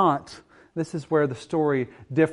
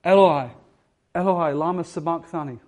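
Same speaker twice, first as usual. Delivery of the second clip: a raised, anguished call to God; echoing, forsaken cry from the cross; distressed cry; 4 semitones higher, 5 dB louder than usual. Retold or imitated. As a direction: cry it out in distress, higher and louder. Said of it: "listening to his voice in a distressed way".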